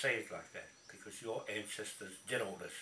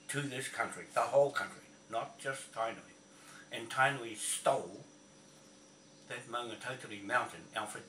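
loud, indignant tirade at his opponent; angry shout; 3 dB louder than usual. Real, not acted. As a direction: shout him down, building to a yell. Ranting challenge at Alfred.

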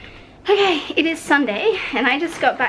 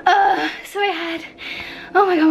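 choked up; 7 semitones higher than usual. Real, not acted. Upset vlogger near tears.

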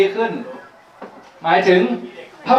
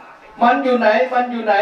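higher, slower mock yell; mock shout; 6 semitones higher, slower than usual. The monk shouts after the scholar, a light mock yell. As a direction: call out a bit high and slow, lightly acted. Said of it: "ก็มีเสียงตะโกนขึ้นมาว่า".

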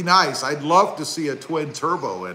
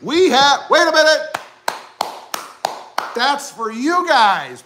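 mock sudden realization; 9 semitones higher than usual. Owner realizing a newer truck came out, high mock surprise. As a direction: play the buyer who just spotted the new model. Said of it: "and you're like".

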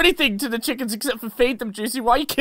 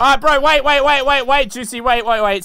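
louder, rapid string of waits; urgent pleading; 3 dB louder than usual. Acted. Friend begs Juicy to hold off, urgent pleading.

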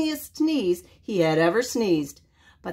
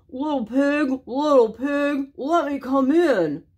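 higher, pleading wolf voice with a stuffy nose; wolf at the door; 6 semitones higher than usual. Acted. Wolf asks the pig at the door, pleading. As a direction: ask sweetly to be let in.

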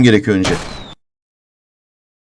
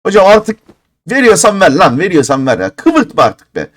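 fed-up demand; 4 semitones higher than usual. Real, not acted. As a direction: bark it at the crate. Demanding the item from crate. (bıkmış, sert çıkışma)

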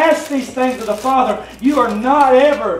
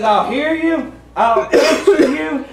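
slow tender voice of God; 2 semitones higher, much slower than usual. Acted. Pastor voices God's promises.

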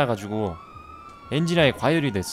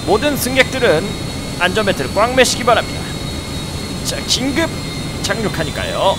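pilot announcement; 6 semitones higher than usual. Pretend.

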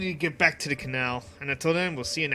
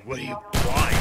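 merchant voice. Pretend. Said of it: "merchant voice again".

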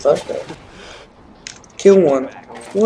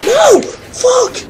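shout; 4 dB louder than usual. Real, not acted. Dying in game, yelling.

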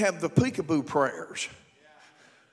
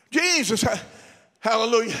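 mock prayer-room praying. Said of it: "like jump rope".

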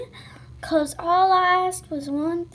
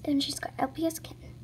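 whisper; 7 dB quieter, faster than usual. Real, not acted. Quick aside about channel.

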